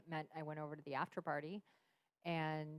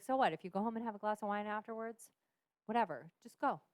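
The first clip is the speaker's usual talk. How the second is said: mild therapist voice; 4 semitones higher, 5 dB louder than usual. Retold or imitated. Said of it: "She's like".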